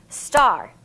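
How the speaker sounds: star as one firm clapped beat; clapped syllables. Shown as a demonstration. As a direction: clap out star once.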